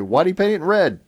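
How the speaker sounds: mock angry mom. Mom scolding the kid over the couch, mock angry. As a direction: play the upset mom, a bit hammed-up. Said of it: "she angrily asked the kid".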